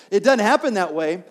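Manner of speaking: firm preacher emphasis; emphatic repeat. Shown as a demonstration. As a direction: drive home "It doesn't happen that way". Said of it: "repeats line with more force".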